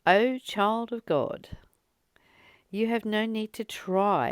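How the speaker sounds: inspired reading. Acted. Reading a channelled message to her listeners, hushed and devout. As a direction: read it like a sacred message. Reads a channelled spiritual text.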